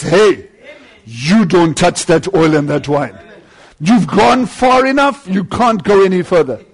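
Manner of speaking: a preacher's mock divine rebuke; stern rebuke. Lamb rebukes the devil.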